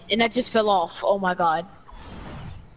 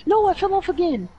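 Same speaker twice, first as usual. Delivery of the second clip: high yelp of dismay; distressed yelp; 9 semitones higher than usual. Real, not acted. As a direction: cry out as you fall. Falling off again.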